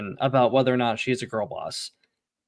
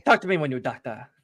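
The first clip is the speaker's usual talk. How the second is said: mock Asian accent; 3 dB quieter than usual. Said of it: "you need to stop with Asian accent".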